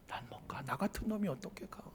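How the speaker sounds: faint whispered refusal; ashamed whisper. Pretend. A fallen believer whispering to himself that he can't go. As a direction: hide in shame, hardly breathing the words.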